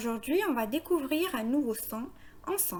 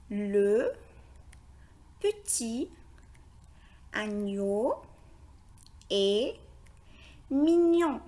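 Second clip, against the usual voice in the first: slow reading with long pauses between words; slower than usual. Shown as a demonstration. Teacher reads the phrase together with learners, word by word. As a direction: read each word on its own, carefully. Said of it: "essayons de lire ensemble la phrase".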